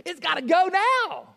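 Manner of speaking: mock-urgent outburst; urgent insistence. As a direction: build to a high, loud order. Parent's urgent refusal, acted out.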